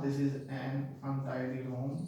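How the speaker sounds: "untidy" begun on a short "uh"; slow "untidy", no y at the start; U not said as you. Shown as a demonstration. Teacher showing silent U, "untidy" begun with "uh". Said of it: "यू नहीं बोल रहा".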